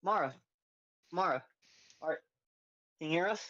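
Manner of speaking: calling out. Acted. Player calling to transformed friend.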